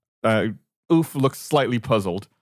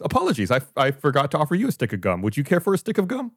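lightly voiced fussy host, a bit quick; a hint of an eager, polite host; Oof offering gum; 3 semitones higher, faster than usual.

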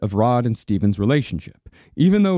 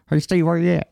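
1 mock dream calling; 3 semitones higher, faster than usual. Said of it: "calling to Stephen through the land of dreams".

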